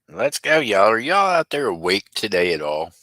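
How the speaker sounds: rally the chat loudly; hyped up. Real, not acted. Hyping up chat.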